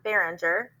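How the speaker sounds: Behringer said in clear beats; syllable demo. Shown as a demonstration. Teacher to parents, clapping out syllables. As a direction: break Behringer into its beats for the class. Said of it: "Behringer has three syllables".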